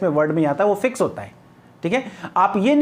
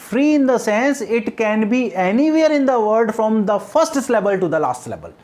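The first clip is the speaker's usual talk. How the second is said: slow dictation; much slower than usual. Shown as a demonstration. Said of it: "dictating a definition".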